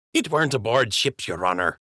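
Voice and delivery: high-voiced dockhand greeting his captain; Jimmy the docker's voice. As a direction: pitch it way up like a simple dock worker.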